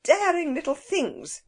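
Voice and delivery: put-on indignant cry at the intruding children; crying out in anger. A narrator's reading. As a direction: snap at the naughty children. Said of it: "she cried".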